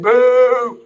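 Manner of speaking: high, loud taunting boo; imitating a heckler's boo; mock boo. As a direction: jeer it like a heckler. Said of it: "he's booing me right now".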